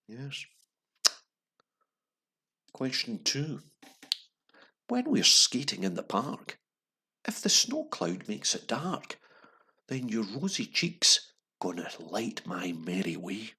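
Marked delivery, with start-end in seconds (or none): 4.9-13.5 slow, bright sing-song read; cheery reading. Shown as a demonstration. Host reading the quiz lyric too cheerily. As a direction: make the lyric sound cheery. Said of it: "I think I'm being a bit too cheery".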